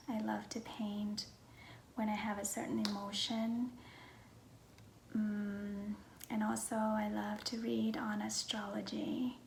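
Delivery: hushed, half-whispered self-introduction; soft-spoken vlog. Real, not acted. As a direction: talk gently, close to a whisper.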